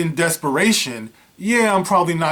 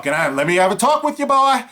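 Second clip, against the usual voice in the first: menacing redneck; 6 semitones higher than usual. Retold or imitated. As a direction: sneer it like a threatening good old boy. Truck men confront the jogger.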